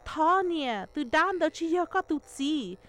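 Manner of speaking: put-on high, urgent girl's plea; desperate pleading. A narrator's reading. Yer begs mother to see through disguise, pleading. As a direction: plead high with a mother who will not believe.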